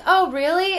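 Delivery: high-pitched, challenging quote; mock retort. Imitating a harassed woman facing a streamer, mock retort. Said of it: "She was like".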